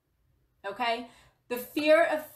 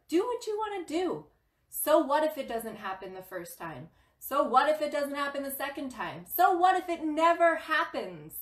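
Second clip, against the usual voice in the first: building tough love; 4 semitones higher than usual. Real, not acted. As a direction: build it up like a coach. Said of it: "getting aggressive or hard love".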